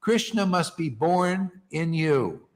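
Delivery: slow, with "Krishna" hit hardest; emphatic correction. Shown as a demonstration. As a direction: press the point home slowly. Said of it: "No, no".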